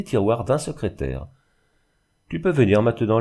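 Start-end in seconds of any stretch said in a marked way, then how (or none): 2.3-3.2 called out. Acted. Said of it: "lui cria-t-il".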